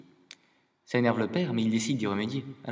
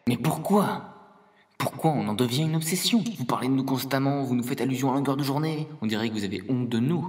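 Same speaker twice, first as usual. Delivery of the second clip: a touch of indignation, higher and louder; exasperated protest; 4 semitones higher, 4 dB louder than usual. Acted. Poo complaining to humans about their obsession, mildly indignant protest. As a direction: plead your grievance with rising exasperation.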